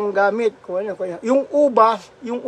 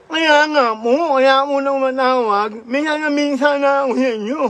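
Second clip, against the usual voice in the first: slurred cleft-palate speech, lightly raised; mock Ngongo voice; 4 semitones higher, 3 dB louder than usual. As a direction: imitate the Ngongo child calling home, slurring. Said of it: "yung kwento ni Ngongo".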